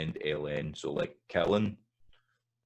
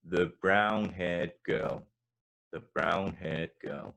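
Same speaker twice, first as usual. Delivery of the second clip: put-on slow English-accent brown-haired girl; slower than usual. Shown as a demonstration. Teacher contrasting English and Scots phrasing. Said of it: "in an English accent".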